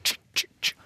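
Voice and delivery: short "tsk" noises, evenly separated; imitated staccato ticking. Host contrasting terse emergency tweets with police, staccato tsk noises. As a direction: tick off each item with a tsk. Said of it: "er litt mer sånn".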